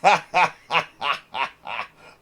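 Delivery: long, loud ha-ha laugh; big laugh that starts loud and tapers; real laughter. Real, not acted. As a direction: burst out in a run of separate ha-has. Laughs at what he watches.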